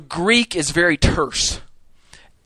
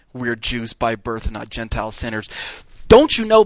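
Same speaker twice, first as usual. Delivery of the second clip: said off to the side; 4 semitones lower than usual. Retold or imitated. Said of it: "he kinda says it off the side".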